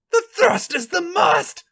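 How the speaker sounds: high, slow squeaky voice. A narrator's reading. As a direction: squeak it between moans. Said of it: "squeaks out in between moans".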